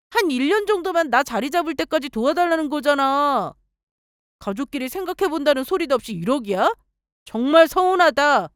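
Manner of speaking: sister-in-law scolding her, hurt and angry. Acted. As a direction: snap at her brother's wife for being rude. Sister-in-law grabs her arm.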